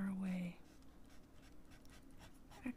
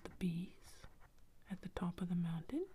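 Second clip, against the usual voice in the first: lightly acted wide-eyed amazement; surprised bear. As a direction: question lifting sharply at the end. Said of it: "opens his eyes wide and says".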